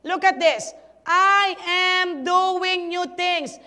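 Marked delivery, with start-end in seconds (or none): 1.1-3.6 "I" punched loud, then "am doing new things" slow and drawn out; stressing present action. Shown as a demonstration. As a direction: hammer the ongoing action home. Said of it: "It is a present active verb".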